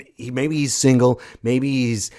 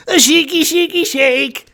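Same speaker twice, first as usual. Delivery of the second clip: hammed-up showman; 8 dB louder than usual. Miming cocktail showman.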